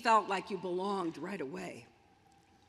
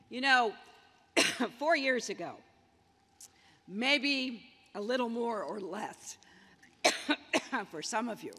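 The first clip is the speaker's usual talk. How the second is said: coughing through a scratchy throat; sore throat; 3 dB louder than usual. Real, not acted. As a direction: talk past a tickle in the throat. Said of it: "I've gotta get a lozenge".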